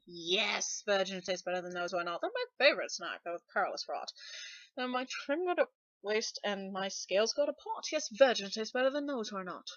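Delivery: sassy sung refrain; sassy dragon refrain, lightly voiced. Shown as a demonstration. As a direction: lay on the sass. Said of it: "That evidently makes me sound sassy".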